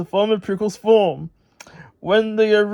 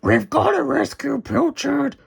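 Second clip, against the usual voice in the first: roaring; 7 semitones higher than usual. Acted. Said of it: "Muck roared".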